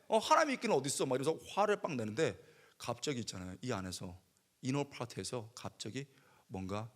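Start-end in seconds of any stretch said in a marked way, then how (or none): 0.1-1.1 하나님이 있기는 어딨어 repeated at normal volume, grumbling; half-hearted angry mutter; muttered anger. Retold or imitated. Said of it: "내가 화가 너무 나가지고".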